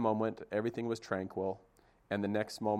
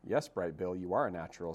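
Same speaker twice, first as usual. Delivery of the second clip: trying to sound motherly; 3 semitones lower than usual. Acted. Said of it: "trying to sound like a good mother".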